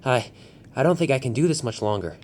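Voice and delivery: lightly winded, tired voice; a hint of breathlessness; out of breath. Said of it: "he said out of breath".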